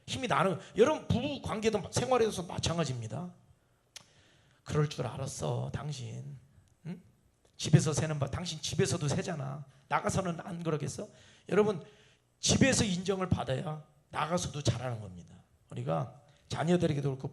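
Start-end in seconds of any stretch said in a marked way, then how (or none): 4.6-11.1 a spouse scornfully nagging a partner who failed at work; mild mock sneer.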